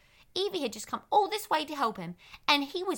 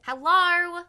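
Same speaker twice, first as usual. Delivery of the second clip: calling out; 2 semitones higher, 4 dB louder, slower than usual. Acted. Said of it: "she started yelling at the cave door".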